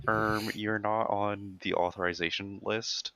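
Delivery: slow, drawn-out nerdy receptionist; a hint of a nerdy clerk; nerd voice. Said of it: "they were like".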